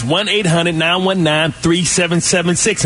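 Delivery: brisk, energetic phone-number read; rapid-fire number. Shown as a demonstration. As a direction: rattle the number off at full energy. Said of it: "keep up with my speed and my energy".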